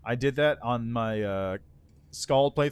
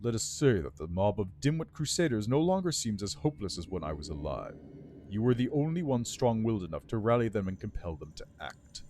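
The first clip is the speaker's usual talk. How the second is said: lightly voiced dry, approving lich; grudging approval from an undead lord; 3 semitones lower than usual. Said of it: "The Lich's voice is dry, but not completely devoid of approval".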